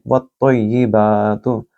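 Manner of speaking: वत्तय्यिबातु with a round, heavy त; slow, rounded वत्तय्यिबातु. Shown as a demonstration. Teacher repeating the word, rounded t. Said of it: "इसको भी थोड़ा गोल पढ़ेंगे".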